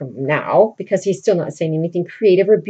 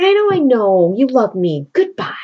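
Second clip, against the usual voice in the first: dismissive Roxanne; 3 semitones higher, 3 dB louder than usual. Retold or imitated. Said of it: "she's like".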